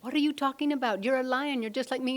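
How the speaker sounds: high, loud storybook lion voice; exasperated lion. Retold or imitated. New lion to the sheep lion, acted loud incredulity. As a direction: confront them, acting loud disbelief. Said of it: "new lion said".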